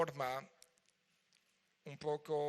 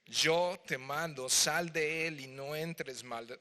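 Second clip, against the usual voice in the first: slow, firm and louder rebuke; commanding Jesús; 5 dB louder, slower than usual. Acted. Jesús rebuking the unclean spirit, slow and commanding. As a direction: order the spirit out with authority. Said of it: "Fíjate la autoridad de Jesús".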